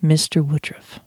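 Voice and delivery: even, unforced use of the name; mildly courteous, measured address; respectful address. Shown as a demonstration. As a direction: call him by name, politely and calmly. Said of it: "calling the person by their name respectfully".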